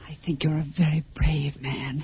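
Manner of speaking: soft, unvoiced admiration; hushed tender praise; tender whisper. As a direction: whisper it close and sincere. Wife tender before death.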